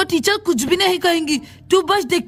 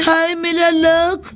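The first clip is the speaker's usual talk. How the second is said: slow mock lament; much slower than usual. Student laments her bad luck.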